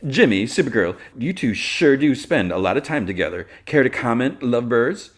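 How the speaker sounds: loud, high showy ambush; teasing reporter. Retold or imitated. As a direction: play a nosy reporter, hammed up. Voices Cat ambushing the pair teasingly.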